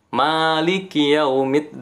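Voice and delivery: chanted Quran recitation at medium length; medium tawasud recitation. Shown as a demonstration. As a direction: recite Maliki with moderate lengthening.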